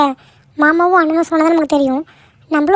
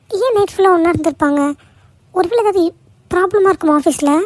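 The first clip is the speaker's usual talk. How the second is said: higher, stunned questions tumbling out; shocked disbelief; 3 semitones higher than usual. Acted. Daughter-in-law watching her father-in-law on the news, shocked and higher. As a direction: react as if the news can't be true.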